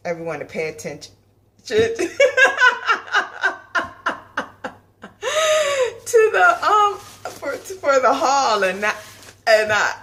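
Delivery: laughing too hard to talk; cracking up mid-sentence; laughing fit. Real, not acted. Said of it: "oh my gosh".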